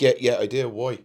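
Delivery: bristle, suddenly on guard; loud suspicious answer. Retold or imitated. Answering partner's Hoover question, loud and defensive. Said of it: "I was like".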